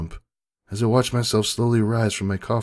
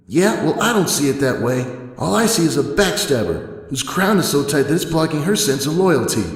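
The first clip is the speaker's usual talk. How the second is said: louder, spiteful accusation; bitter anger; 4 semitones higher, 4 dB louder than usual. Acted. Dash angrily calling Twilight a backstabber. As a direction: spit out the insult.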